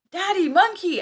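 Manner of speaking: high, loud exclaimed reaction; mock exclamation. Husband reacting to son's monkey joke, mock exclamation.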